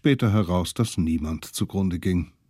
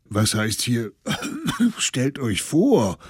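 hustend; 4 semitones higher than usual. Acted. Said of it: "hustete einer der Alten".

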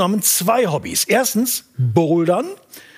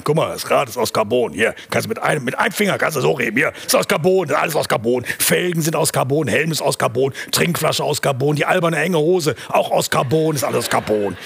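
show-off cyclist; 4 semitones lower than usual. Retold or imitated.

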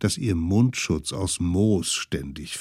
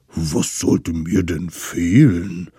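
slow, lower big-creature voice; a lightly voiced puzzled mammoth; 3 semitones lower, 5 dB louder, slower than usual. Mammoth asks.

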